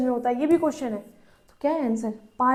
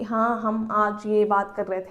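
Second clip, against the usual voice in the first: monotonous voice; 4 semitones lower than usual. Shown as a demonstration. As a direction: mimic a patient droning in one tone. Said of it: "एक monotonous".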